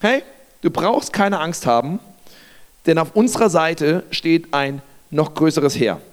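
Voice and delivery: calm, unhurried reassurance; simply reassuring. Acted. Elisa to his frightened servant, calm reassurance. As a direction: reassure simply, with measured pauses. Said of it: "Elisa sagt einfach nur".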